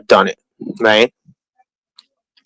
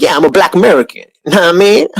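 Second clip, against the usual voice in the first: fast, higher put-on street voice; 5 semitones higher, faster than usual. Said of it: "Be like".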